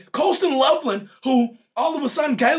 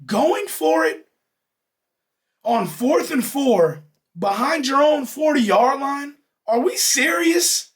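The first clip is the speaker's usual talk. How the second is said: exasperated shout; 4 semitones higher, slower than usual. Real, not acted. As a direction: yell it in disbelief. Ranting at the coach's call.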